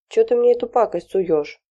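father pushing the magazine away in mock disgust; indignant outburst. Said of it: "возмущался Юрий Васильевич".

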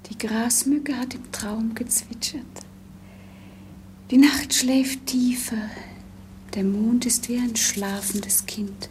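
soft whisper, barely voiced; hushed night whisper. Princess alone at night, whispering to the sleeping prince. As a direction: speak as if not to wake the sleeping.

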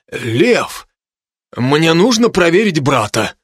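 stern but caring. A narrator's reading. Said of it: "строго и в то же время с заботой".

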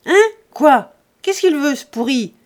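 violent abusive yelling. A narrator's reading. Lise screaming abuse at Jean on the doorstep, furious. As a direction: hurl insults, hands on hips. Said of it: "elle gueulait, plus violente, plus injurieuse".

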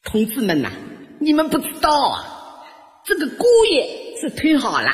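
high, singsong praise; gushing mother-in-law. Retold or imitated. Mother-in-law praises son-in-law to neighbours, high gushing voice. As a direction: proclaim it to the crowd in a high put-on voice. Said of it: "一边夸我".

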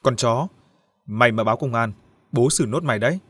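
a mild menacing threat; threatening. Acted. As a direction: warn her off with a knife in hand, lightly menacing. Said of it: "nói giọng hăm dọa". (giọng hăm dọa nhẹ)

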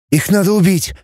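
high, bitter vow of revenge; a mild touch of fury; breathed out in rage. Acted. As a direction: spit it out through twisted lips. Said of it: "выдохнул Кнуров, кривя губы".

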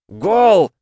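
very loud, high goal shout; yelling. Acted. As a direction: roar it out. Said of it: "заорал Тоха".

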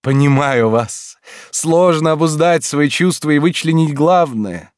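high, soothing oddball teacher; eccentric teacher voice. A narrator's reading. Lorenz voiced by narrator. (чудаковатый учитель)

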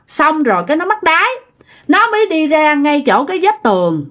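a lightly hammed-up old ghost grieving over her grave; wailing old woman ghost. Possessed aunt pleading with her nephew in an old ghost's wail. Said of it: "giọng của một bà già".

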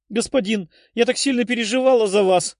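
tearful outburst. A narrator's reading. Tefa greets her returning master, bursting into tears. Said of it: "разревелась Тефа".

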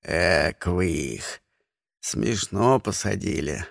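put-on low, slow creaky old voice; amused old villager; old egg approving the prank; old man chuckling.

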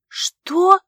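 high, loud startled cry; shocked. A narrator's reading. Vivien hearing she may be jailed, shocked. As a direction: gasp it out in disbelief.

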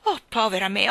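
mild moaning wail of "Oh, povera me"; groaning lament. Acted. Queen lamenting the king's folly, mild moan. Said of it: "gemette la regina".

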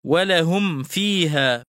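ولهم فيها slowly, m distinct before the f; clear meem. Shown as a demonstration. Teacher gives students an example, ولهم said slowly with a clear m. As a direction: sound the meem of ولهم cleanly, then فيها. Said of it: "وتكون أشد إظهارا عند الفاء والواو".

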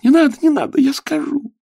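very high, loud scream of begging; girl screaming as the candle burns her hand; screaming plea. Acted. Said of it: "Ело закричала".

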